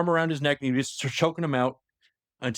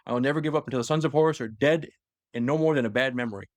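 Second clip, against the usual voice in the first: mildly theatrical oath of vengeance; defiant recited vow. Retold or imitated. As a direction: declaim it as a solemn vow to an enemy.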